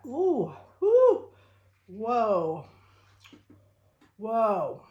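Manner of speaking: high yelping ooh, then loud whoa; spicy food reaction. Real, not acted. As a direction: react to a burning bite. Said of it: "Is it spicy?".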